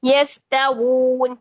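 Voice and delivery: यस्तगून stopped on a silent न, slow; pause stop. Shown as a demonstration. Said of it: "नून को साकिन कर दिया". (वक्फ के साथ यस्तगून)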